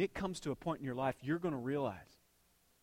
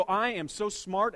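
mock boast; 4 semitones higher, 3 dB louder, slower than usual. Mocking a self-proclaimed genius.

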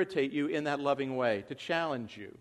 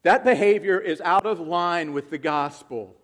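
louder, sharp call of "Peter"; firm rebuke; 6 dB louder than usual. Acted. Paul rebuking Peter publicly, loud and firm. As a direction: confront him squarely. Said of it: "No, he said".

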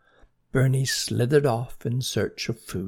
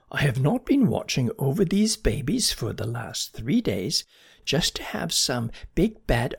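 a hint of a stern, scolding snail, pitched up; 3 semitones higher than usual. Guardian snail scolds hungry slug, mildly stern. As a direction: scold the slug off her babies. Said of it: "said a stern voice".

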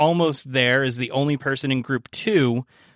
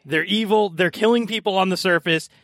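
desperate NPC; 5 semitones higher than usual. Acted. NPC apologizing before grabbing hostage.

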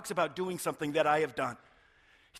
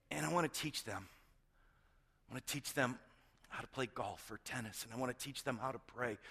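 tender; 5 semitones lower, 8 dB quieter than usual. Retold or imitated. Tender wish to teach kids.

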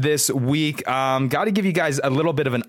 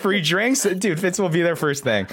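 high, eager about free drinks; excited; 6 semitones higher than usual. Real, not acted. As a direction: pitch it up with glee.

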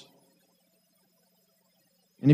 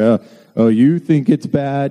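mock one-upmanship; 4 dB louder than usual. Mock one-upping suffering testimony.

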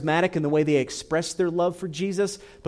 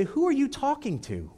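knowing God voice; 9 semitones higher than usual. Pretend. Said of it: "God's gonna look at you and say".

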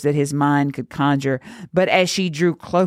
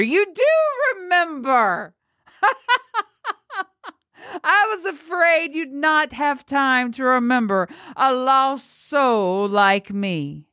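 put-on manic girl; 11 semitones higher than usual. A narrator's reading. Manic girl's voice.

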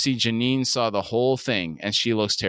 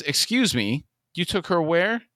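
higher-pitched indignant questioning; indignant disbelief; 7 semitones higher than usual. Acted. Mother confronting Todd over the rally, indignant disbelief. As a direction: challenge them, pitch climbing at the end.

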